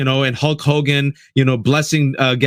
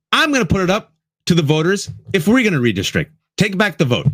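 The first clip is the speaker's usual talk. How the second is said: mimicking Newsom; 5 semitones higher than usual. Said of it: "He said".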